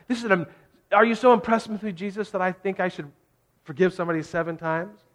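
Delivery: fishing for praise from the teacher; showing off. Retold or imitated. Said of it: "like he's being super generous".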